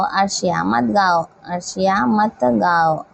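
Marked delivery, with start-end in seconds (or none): 1.5-3.0 slower repeat of the example; measured teacher's dictation. Shown as a demonstration. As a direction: take it slowly so pupils can follow. Teacher repeats example slowly for class.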